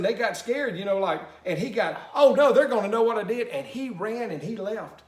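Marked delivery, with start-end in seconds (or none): 2.1-3.5 panicked Moses. Retold or imitated. Moses panics, voiced in story.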